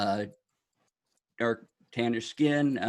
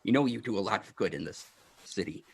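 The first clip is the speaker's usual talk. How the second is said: gnome voice; faster than usual. Acted. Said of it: "And he's like".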